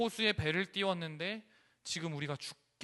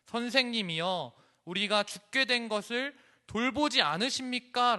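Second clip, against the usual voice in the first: higher, louder reproachful cry; resentful rebuke; 6 semitones higher, 7 dB louder than usual. Acted. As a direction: press him with resentment. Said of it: "원망 섞인 말로 예수님을 다그칩니다". (원망 섞인 다그침)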